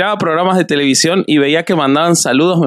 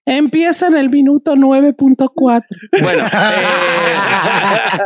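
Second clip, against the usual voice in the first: high, laughing through the words; 7 semitones higher, slower than usual. Real, not acted. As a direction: crack up while announcing it. Joking about the late start.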